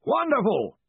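high, hearty shout; booming, oblivious interruption. A narrator's reading. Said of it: "shouted Ridcully".

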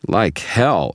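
indignant objection. A narrator's reading. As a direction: object hotly to a lie. Loud objection to a cover-up.

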